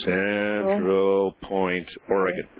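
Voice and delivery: "Central Point" drawn out very slowly; slow dictation. Shown as a demonstration. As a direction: spell it out slowly so she can write it down. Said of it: "I want you to send this to".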